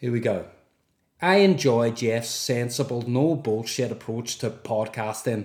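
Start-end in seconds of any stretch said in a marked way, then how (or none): 1.2-5.5 tentative put-on Northern Irish accent. On April first, trying accents while reading a message: attempted Northern Irish accent. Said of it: "I'm going to try and do Northern Irish".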